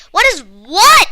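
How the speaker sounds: put-on boy shouting back puzzled. A narrator's reading. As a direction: call back across the lake. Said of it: "he shouted back".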